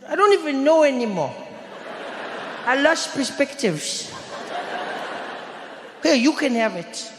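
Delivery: put-on high Indian-accented voice, giving up; despairing schoolboy in put-on Indian accent. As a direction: imitate the friend's Indian accent, high and slowing. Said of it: "I know I'm Indian".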